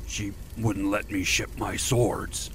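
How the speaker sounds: grinding out the words, barely controlled; fear turning to anger. A narrator's reading. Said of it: "His fear turned to anger".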